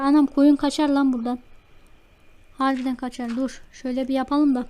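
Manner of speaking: ordinary talk, nothing marked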